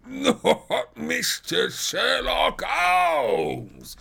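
loud, high, drawn-out bellow; astonished roar. A narrator's reading. Prize fighter recognising Holmes, astonished roar. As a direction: roar the name slowly in amazement. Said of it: "roared the prize fighter".

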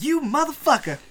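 high, loud screechy villain voice; villain's outburst. Acted. Game master voices the villain cursing the player, high loud screech. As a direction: shriek it at the hero in her voice. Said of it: "so she's like".

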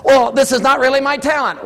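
mock whiny protest; whiny excuse. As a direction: play a churchgoer dodging the call. Voicing the objector.

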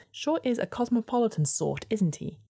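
a snide little weasel. Acted. Weasel tirade.

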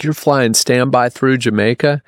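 imitating a friend's alarmed disbelief; mock freak-out. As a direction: retell it as an incredulous, worried question. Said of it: "he freaked out".

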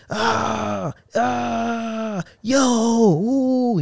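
imitating a coworker's high yelps; coworker yelling. Imitating the new coworker yelling for nothing, high mock yelps. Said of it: "He be yelling and stuff".

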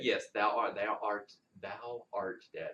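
thick Texas twang, ye olde words; Texas accent. Pretend. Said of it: "My Texas accent really came out right there".

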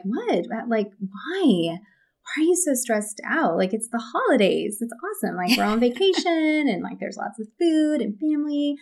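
lightly voiced carefree colleague; clueless guy quote. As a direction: play the baffled guy who loves the holidays. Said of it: "He's just like".

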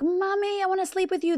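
put-on little kid voice. Mom imitating her kids begging to sleep with her, high child voice. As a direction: beg like a toddler at bedtime. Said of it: "They see me, they're like".

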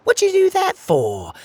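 loud, very high outraged cry. Acted. Another crab crying out at Pockets, loud and upset. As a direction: yell it at the culprit. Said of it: "cried another crab".

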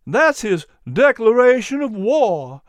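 chirpy little dog quoting Patrick; high, eager dog voice; little dog character voice. A narrator's reading. Miz P exclaims.

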